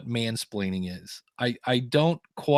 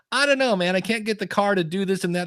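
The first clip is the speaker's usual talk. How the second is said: higher, louder made-up New York or Jersey guy; a rough New York accent, much higher and louder; 6 semitones higher, 3 dB louder than usual. Retold or imitated. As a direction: ham up a New York guy stuck with his car. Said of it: "horrible, weird accent I just made up".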